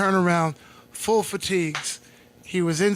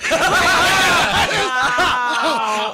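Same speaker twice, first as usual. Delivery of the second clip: big burst of shouted laughter; loud laugh; 10 semitones higher, 7 dB louder than usual. Real, not acted. Cracking up at his friend's cleft palate joke, loud laugh. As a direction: crack up loudly, almost yelling.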